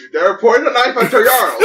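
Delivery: lofty mock-Viking lord, half laughing; Jarl voice. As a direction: play the offended Jarl, grandly. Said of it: "Stop this fucking voice".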